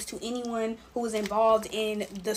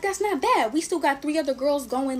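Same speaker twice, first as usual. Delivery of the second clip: upbeat self-reassurance; 5 semitones higher, 4 dB louder than usual. Retold or imitated. Reassuring herself after a dropout.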